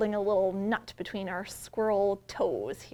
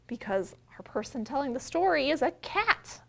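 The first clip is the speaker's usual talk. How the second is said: normal talking voice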